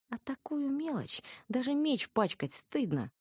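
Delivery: slow, high, disdainful drawl; scornful disdain. A narrator's reading. Heroine belittling the tiny monster, scornfully. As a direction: draw it out with scorn.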